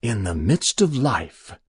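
mildly sanctimonious intoning; kind of pious. Acted. Stranger answering news of a death, piously. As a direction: intone it like scripture. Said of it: "kind of pious".

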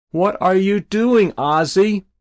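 high, wailing, alarmed questions; distressed mother. A narrator's reading. Mother to her son on the roof, bewildered distress. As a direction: call up to your child in alarm.

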